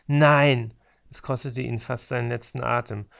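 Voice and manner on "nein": loud, high snarled no; fierce snarl with last breath. Acted. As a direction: snarl it out like a dying man. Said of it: "er fauchte mich an". (lautes, wütendes Anfauchen mit letztem Atem)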